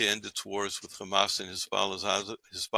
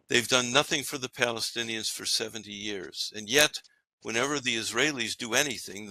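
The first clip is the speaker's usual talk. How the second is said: put-on quoting a pundit with his timing and emphasis, not his accent; Douglas Murray's cadence. Radio host quoting Douglas Murray, mimicking his intonation and timing. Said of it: "I can probably do his intonation and timing".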